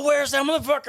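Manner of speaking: high mock yell at moderate volume; imitated yelling. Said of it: "she starts yelling at us".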